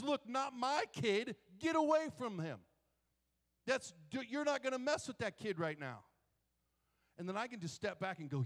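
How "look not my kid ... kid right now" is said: fierce protector. Acted. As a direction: stand over the kid and warn off the devil. Jesus voiced as protector.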